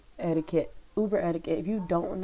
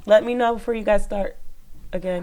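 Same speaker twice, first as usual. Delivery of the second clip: calling out; 3 semitones higher, 6 dB louder than usual. Real, not acted. Calling out to her son.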